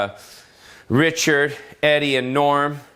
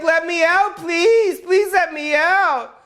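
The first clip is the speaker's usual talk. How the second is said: begging victim; slower than usual. Retold or imitated. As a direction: beg from the bottom of the well. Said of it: "And she's like".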